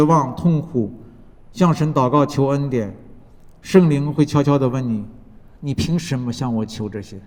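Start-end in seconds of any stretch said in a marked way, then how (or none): 5.6-7.2 softer and lower, a gentle probing question; quiet questioning. Retold or imitated. The Spirit quietly questioning the one who prays, softer and lower. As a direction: ask it softly, as the Spirit would.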